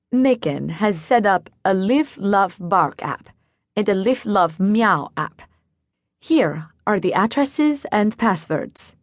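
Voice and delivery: put-on slow, lightly German-accented reading; a touch of German accent, careful over app names. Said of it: "she spoke with a German accent".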